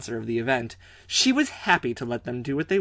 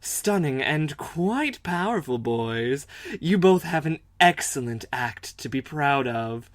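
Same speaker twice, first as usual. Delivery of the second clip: rich woman voice; slower than usual. Acted. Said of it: "I'm gonna try and sound like a rich woman".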